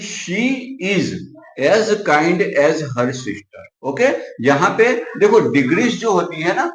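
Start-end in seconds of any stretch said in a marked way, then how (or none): 0.0-3.6 slow dictation. Shown as a demonstration. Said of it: "sentence लिया है".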